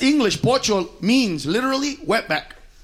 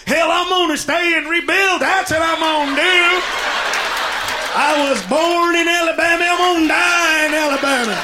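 proud, stubborn Alabama holdout; stubborn redneck; 5 semitones higher than usual. Retold or imitated. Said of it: "What are you gonna do this year?".

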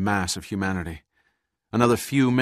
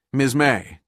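louder call by name; 5 semitones higher, 9 dB louder than usual. Acted. Pitt calls to the purser over the radio, raised voice. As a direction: call her name across the static. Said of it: "called Pitt".

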